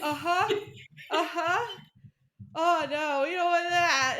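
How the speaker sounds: nodding along in mock alarm; playfully voicing the frozen crowd; mock eager agreement. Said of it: "And everybody's like".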